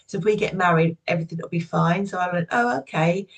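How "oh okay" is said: naive agreement. Retold or imitated. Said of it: "being that naive".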